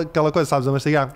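ordinary talk

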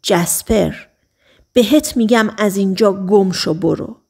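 a hint of Eddie hissing his order; through locked teeth.

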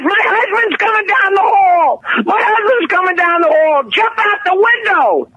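high, crying shout to hurry him out; frantic wife urging her lover to jump; a woman crying out in alarm; panicked wife. Acted. Wife panics, husband coming.

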